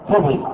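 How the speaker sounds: "كذب" with a on the kaf and i in the next syllable; "كذب" pronounced ka-dhib; fatha then kasra. Shown as a demonstration. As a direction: say "كذب" as two syllables, kadhib. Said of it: "بفتح الكاف وكسر الباء. كيف ننطق؟".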